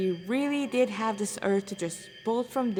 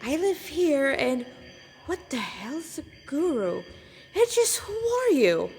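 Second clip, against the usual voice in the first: louder and higher, blunt and defiant; punk attitude returns; 5 semitones higher, 3 dB louder than usual. Acted. Boy brushing off the guru question, brash. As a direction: snap back to cocky punk. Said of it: "he was back to his normal self".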